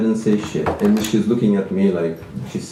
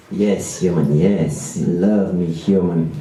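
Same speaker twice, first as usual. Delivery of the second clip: girlfriend impression; 2 semitones lower, slower than usual. Comedian imitates his girlfriend telling him to love her, lightly voiced. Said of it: "I'll try to do a good impression of her".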